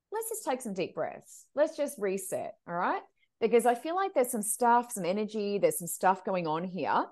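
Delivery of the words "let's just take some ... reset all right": softer, slower, reassuring; calming. Retold or imitated. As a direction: settle her down gently. Calming the client down.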